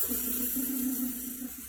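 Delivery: soft rapid-fire whooshing noise; imitated flying noise. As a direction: make a stream of things flying past. Imitates patties flying out window.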